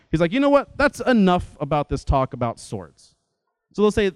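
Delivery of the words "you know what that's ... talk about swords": frustrated Jesus. Retold or imitated. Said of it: "is a frustrated tone".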